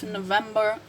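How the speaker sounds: November first with final R, then without; American then British pronunciation. Shown as a demonstration. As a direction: contrast November ending in r and in "ba". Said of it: "difference between American and British pronunciation".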